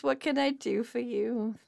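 slow, mildly downcast delivery; a touch of acted dejection, dragged out; dejected. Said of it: "extremely depressed to just dejected".

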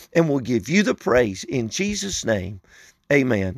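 earnest spoken prayer; closing prayer. Real, not acted. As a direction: lead listeners in sincere prayer.

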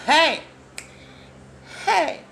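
high, sudden excited call; exclaiming. Real, not acted. Preacher calling out after a promise from scripture, exclaiming. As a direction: cry out in fervour.

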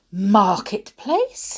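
slow startled repeat; shocked. Acted. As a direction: caught out, echo it in shock. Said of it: "he repeated in shock".

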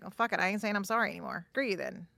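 acted irritated muttering; fed-up retort. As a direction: give up on apologizing, mock annoyance.

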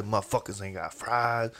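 low, quiet grumble under the breath; mumbling. Retold or imitated. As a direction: mumble it as an overheard complaint. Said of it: "he's mumbling".

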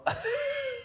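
high squealing laugh breaking out; burst of laughter. Real, not acted. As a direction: cracks up at the message. Laughs reading the message.

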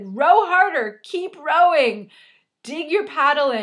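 high, loud shouted coaching; retold yelling. Husband yells down to his struggling wife, retold yelling. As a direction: imitate a husband hollering urgent instructions. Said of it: "he starts to yell down to me".

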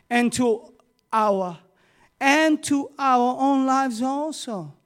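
slow, solemn, lightly voiced warning; Paul's warning. Paul warning the men aboard the ship, slow and solemn. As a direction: read Paul's warning slowly, with gravity. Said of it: "He tells a man in verse ten".

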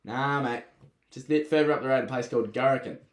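lightly imitated Aussie accent; a touch of mock Aussie local. Local imitated sending a traveller on to Gorokan, light mock Aussie voice. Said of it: "that's his Aussie voice".

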